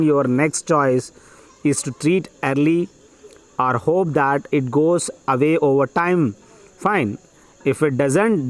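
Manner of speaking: measured, phrase-by-phrase passage reading; dictation reading. Acted. Teacher dictating an exam passage to students, measured dictation. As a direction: read it out slowly in short chunks with pauses.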